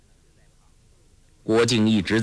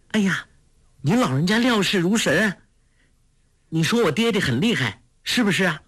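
put-on a young girl's voice, higher, teasing; Huang Rong laughing; 8 semitones higher than usual. A narrator's reading. Girl teasing the old beggar, lightly laughing. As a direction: flatter the old beggar playfully. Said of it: "黄蓉笑道".

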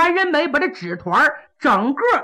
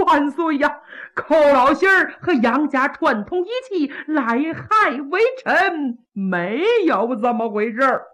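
a lightly voiced, tearful plea, slowing down; whining accused minister; 2 semitones higher than usual. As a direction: beg the emperor with a hint of a sob. Pan whines his denial.

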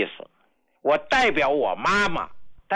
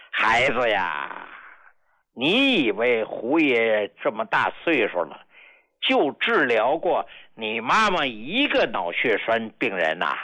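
gentle; 5 semitones lower than usual. Retold or imitated. Grandpa gently teasing the child.

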